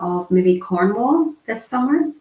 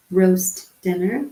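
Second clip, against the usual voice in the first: slow, clear repeat; slower than usual. Shown as a demonstration. Teacher repeats the sign name for viewers, slow and clear. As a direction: say roast dinner slowly, each word distinct. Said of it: "repeats the sign slowly".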